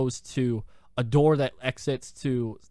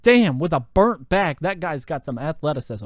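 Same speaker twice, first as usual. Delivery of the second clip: amazed; 3 dB louder than usual. Retold or imitated. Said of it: "I was like".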